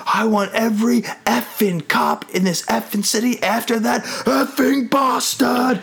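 high put-on pig villain voice; pig character. Host quoting the cheated pig's order, acted pig voice. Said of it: "the pig is like".

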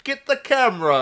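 high excited yell. Retold or imitated. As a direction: blurt it out, thrilled. Quoting Nigel, excited.

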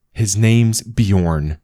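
a sharp rebuke to the troll; snapped. Acted. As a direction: bite the words out. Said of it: "she snapped".

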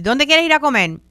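chirpy acted invitation; friend asking the group. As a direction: toss the question out brightly to the group.

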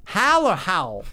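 first Hal, then Hal drawn out differently; contrasted pronunciation. Shown as a demonstration. Friends comparing ways to say Hal, slow and contrasted. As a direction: say Hal two ways, slowly. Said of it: "you talking about Hal?".

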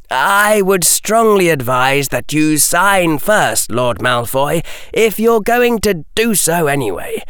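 a lightly voiced boy pushing back politely; steady young voice laying out terms; Harry's voice. Harry advises Lucius.

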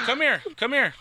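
high, loud order; retold command. Officer ordering the kids over, a loud high command. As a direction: wave them over with a sharp call.

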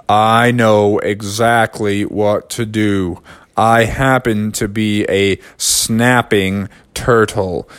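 low, slow confident turtle. Acted. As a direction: lay out the plan slowly.

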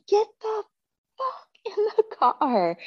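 slow, strained yell held back in volume; retold scream. Wife at husband dawdling to the car, high mock scream. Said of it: "I'm now screaming at him".

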